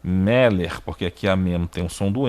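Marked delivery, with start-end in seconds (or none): 0.0-0.8 Meller with the stress on "Me"; "Meller" stressed on the next-to-last syllable; stress on first syllable. Shown as a demonstration. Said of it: "Então se pronuncia".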